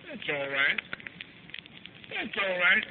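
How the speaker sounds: soft, unhurried reassurance; tender comforting. Retold or imitated. Mother kisses and comforts her child, tender comforting. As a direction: soothe the child gently.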